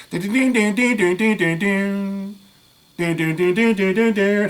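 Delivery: high sing-song bell chime dings; alarm bell dings. Retold or imitated. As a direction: chime it like an alarm going off in your head. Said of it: "I'm hearing".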